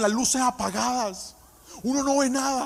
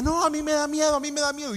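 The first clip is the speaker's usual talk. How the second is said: scared cousin; 5 semitones higher, faster than usual. Retold or imitated. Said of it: "Y entonces la prima".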